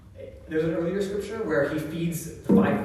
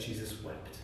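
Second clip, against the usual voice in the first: much softer, lower reverent reading; hushed reverence; 5 semitones lower, 12 dB quieter than usual. Real, not acted. Preacher reading the shortest verse to listeners, hushed. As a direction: let the verse fall almost to a hush.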